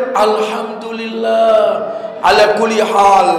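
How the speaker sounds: long drawn-out, serene thanks; peaceful, slightly sung gratitude; calm acceptance. Acted. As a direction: stretch it out slowly with a tranquil heart. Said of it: "tenang hatinya".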